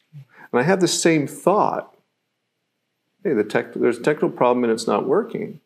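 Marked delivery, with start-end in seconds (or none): 3.2-5.6 rushed, faster mock panic. Shown as a demonstration. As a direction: blurt it out like it's a crisis. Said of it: "but we can do it in a panic".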